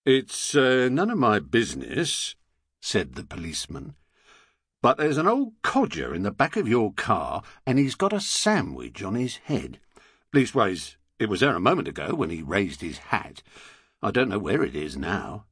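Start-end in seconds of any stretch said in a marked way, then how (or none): 0.1-2.4 gruff London copper voice; a bobby speaking to the driver; london policeman. Acted. 4.8-15.4 lightly voiced London bobby; london policeman.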